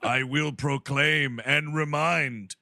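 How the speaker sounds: slow, pompous proclamation; slow and grandly official; dark lord. Pretend. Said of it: "As the mayor of Cool World".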